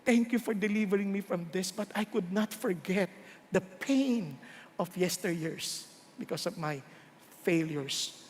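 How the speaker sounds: half-hearted weeping plea to God; preacher recalls praying through mild tears; tearful prayer. Retold or imitated. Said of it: "I would just weep and weep and say".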